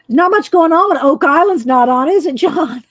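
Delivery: playful loud teasing. Real, not acted. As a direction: rib him with a grin. Teasing viewer John loudly.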